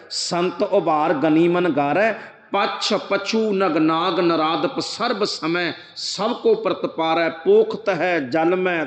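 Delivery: slow, measured verse recitation; drawn-out devotional recital; scripture recitation. Acted. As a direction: recite the holy verse slowly, line by line.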